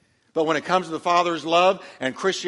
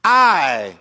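whiny complaint; 3 dB louder than usual. Acted. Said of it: "Listen to what he dumps on the father".

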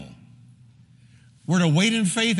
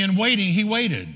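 congregation call-and-repeat. Shown as a demonstration. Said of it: "everybody say with me".

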